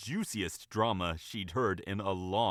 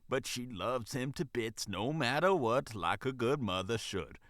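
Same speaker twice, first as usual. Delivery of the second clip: casual. Acted. Manager gossiping with the bunny, casually. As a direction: chat it out easily. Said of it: "The manager spoke casually".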